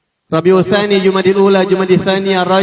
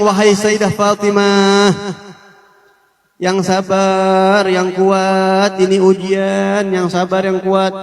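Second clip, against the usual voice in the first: slow, gentle words of comfort to a grieving woman; drawn-out reassurance, each "yang sabar" lingered on; consoling plea; much slower than usual. Acted. Anas comforting grieving Fatimah, slow and gentle.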